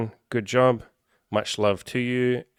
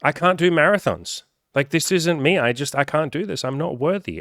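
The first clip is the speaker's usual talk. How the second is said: high, loud, overdramatic whine; mock whining; 6 semitones higher, 4 dB louder than usual. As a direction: play the self-pitying quitter. Quitter whines to the crowd.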